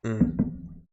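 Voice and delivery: a slurp of hot coffee; quiet sip mid-sentence; sipping coffee. Real, not acted. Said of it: "let me take a sip of my coffee".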